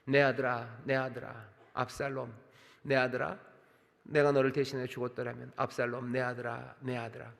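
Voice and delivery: a hint of a broken father's cry; understated lament. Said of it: "부르짖음이었을 겁니다". (점점 잦아드는 절제된 부르짖음)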